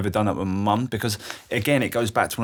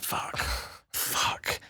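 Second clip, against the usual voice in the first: breathless whispered curse with a laugh; whispered swearing; 9 dB quieter than usual. Retold or imitated. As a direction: whisper it to yourself in dismay. Retold panic when mum didn't reply.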